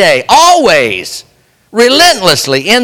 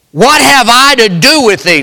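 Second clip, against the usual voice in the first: raised, pleading cry; 4 semitones higher than usual. Retold or imitated. Preacher quoting the demon crying out, raised. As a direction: call it out as the tormented demon. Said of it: "cried with a loud voice and said".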